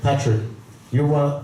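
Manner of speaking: normal talking voice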